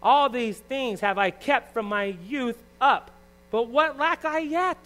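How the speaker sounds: slow, emphatic claim rising to a high question; drawn-out words, pitch climbing at the end; lightly voiced young man. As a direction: read the young man's reply with mild acting. Reading the young man's confident reply.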